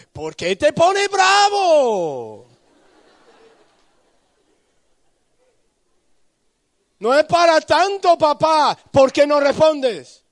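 grito indignado, mucho más alto y fuerte, con risa; hijo enojado gritando. Retold or imitated. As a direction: reclama a gritos, lento al principio. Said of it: "Luego sube con ira". (el hijo le grita al padre, furioso y agudo)

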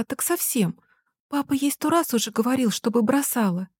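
put-on girl still crying about her mother; tearful complaint. (сквозь слёзы)

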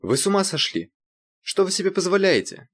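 high indignant shriek; angry outcry. A narrator's reading. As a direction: cry out in outrage. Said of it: "гневно вскрикнула".

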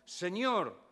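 high, loud pleading shout; shouting to Jesus. Retold or imitated. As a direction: cry out at full voice for mercy. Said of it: "gritando, gritando".

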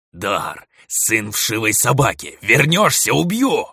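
enraged threat; furious threat. Acted. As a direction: threaten him, climbing into a scream. Threat shouted at runaway.

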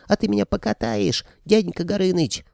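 put-on high excited little boy; squealing child. A narrator's reading. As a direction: squeal it like an eager kid. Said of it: "заверещал маленький Маришур". (визг ребёнка)

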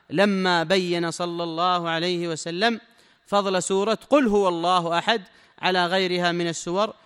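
loud, slow, measured recitation of the text; formal text reading. Acted. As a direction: read each phrase out slowly to the students. Reads the sheikh's text aloud. (قراءة المتن بصوت عالٍ وبطء)

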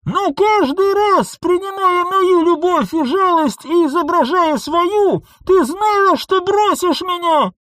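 high, loud, raging reproach; furious accusation. A narrator's reading. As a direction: spit the accusation out. Clone continues furious accusation. (яростный упрёк)

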